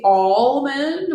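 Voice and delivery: "almond" with an open "aw" at the start; own pronunciation of almond. Shown as a demonstration. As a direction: say "almond" as AWL-mund. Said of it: "which is how I say it".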